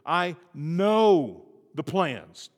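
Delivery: slow, hushed, drawn out words of God; God's assurance, spoken very slowly; voicing God. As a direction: let each word of God land slowly. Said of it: "God says".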